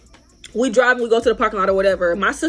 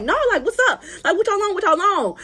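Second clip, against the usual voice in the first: mimicked defiance; 8 semitones higher than usual. Jasmine refusing, challenging rivals.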